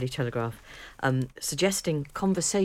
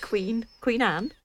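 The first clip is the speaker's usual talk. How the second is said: teasing disbelief; 8 semitones higher, slower than usual. Real, not acted. Teasing cohost about royal claim.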